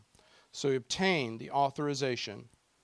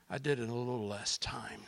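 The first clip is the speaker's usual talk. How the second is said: whispered aside; 2 semitones lower, 6 dB quieter, faster than usual. Acted. Unvoiced aside.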